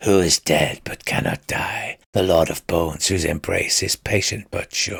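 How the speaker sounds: hushed, eerie, ominous, spooky stage half-whisper. Voicing an unseen voice greeting the party: half-whispering spooky voice. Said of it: "I thought we'd agreed you'd stop that".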